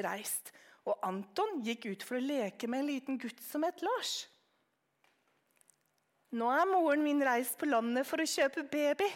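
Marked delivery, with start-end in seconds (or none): 6.3-9.1 proud. Acted. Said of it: "sa han stolt".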